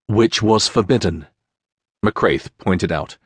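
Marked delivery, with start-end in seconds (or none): none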